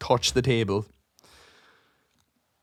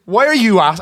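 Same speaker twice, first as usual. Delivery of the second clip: retold aggressive; 7 semitones higher, 8 dB louder than usual. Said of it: "I was probably a bit aggressive".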